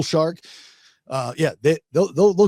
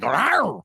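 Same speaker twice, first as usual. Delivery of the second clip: shark roar; 6 semitones higher than usual. Retold or imitated. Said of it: "the shark's like".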